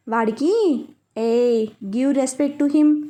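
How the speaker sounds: slow, stern, a touch angry; a mild angry warning, drawn out slowly; mild anger. A narrator's reading. Wife scolding her husband about her father, mildly angry. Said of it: "అంటూ కోపంగా చూసింది".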